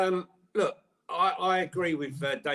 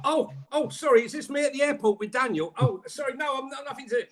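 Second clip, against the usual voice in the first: higher, flustered and caught out; 5 semitones higher than usual. Pretend. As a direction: play the startled man dodging questions. Playing Levy caught at airport.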